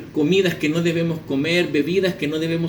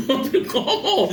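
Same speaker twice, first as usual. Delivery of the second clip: acted, higher-pitched bewildered protest; baffled pastor; 6 semitones higher than usual. Pastor protesting to the unseen voice, acted bewilderment. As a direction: balk in mock disbelief. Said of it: "Y el pastor".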